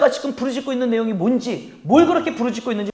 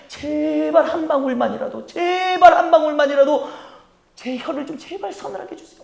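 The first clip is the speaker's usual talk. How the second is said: humble desperate plea; 5 semitones higher than usual. Acted. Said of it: "얼마나 간절하면 굉장히 겸손해졌잖아요".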